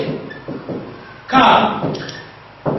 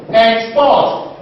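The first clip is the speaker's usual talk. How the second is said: "Export" said ex-PORT, light first syllable; second-syllable stress. Shown as a demonstration. Teacher repeats the verb for students, "Export" stressed on PORT. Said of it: "stress on the second syllable".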